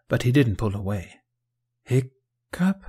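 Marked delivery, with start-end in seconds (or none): 1.8-2.8 name split into a high, rising question; tentative and questioning; hesitant. A narrator's reading. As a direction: ask it uncertainly, voice lifting. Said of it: "he said hesitantly".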